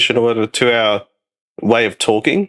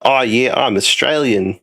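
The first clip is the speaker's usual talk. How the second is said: mock Australian accent; slower than usual. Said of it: "people try and do, like, the".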